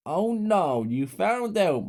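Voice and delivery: high, slow mocking villain voice; menacing mother. A narrator's reading. Mother catching kids in the basement, mocking menace. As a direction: taunt them slowly.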